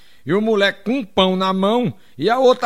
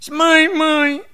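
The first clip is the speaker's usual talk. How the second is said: voz aguda de criança fazendo queixa, choro encenado; menina chorosa; 7 semitones higher than usual. Acted. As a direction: reclame manhosa e aguda, imitando menina. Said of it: "chegou chorando pra mãe dela". (menininha chorona se queixando)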